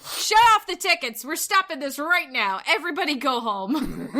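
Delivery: laughing through a hammed-up order; mock boss outburst. Tim Sweeney ordering everyone home, laughing mock authority. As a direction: shut it all down, half-laughing. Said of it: "He takes off his mic".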